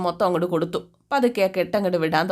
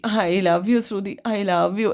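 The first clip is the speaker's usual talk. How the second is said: put-on drunk declaration; much slower than usual. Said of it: "എന്നും പറഞ്ഞ് ശ്രുതിയെ കെട്ടിപ്പിടിക്കുക".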